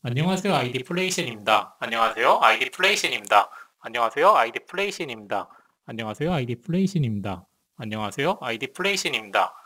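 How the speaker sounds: mic test with shifting voice tone; same greeting through changing equalizer settings; tone-adjusted mic voice. Shown as a demonstration. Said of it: "톤을 바꿀 수가 있어요". (톤 조절로 음색이 바뀐 마이크 목소리)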